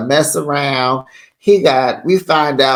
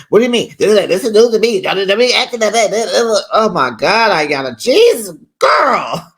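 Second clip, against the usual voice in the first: mock going off; 3 semitones higher than usual. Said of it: "And she go off some more".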